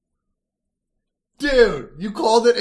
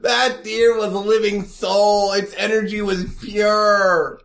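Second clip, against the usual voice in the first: mock animal lover; 3 semitones higher, slower than usual. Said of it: "gonna be like".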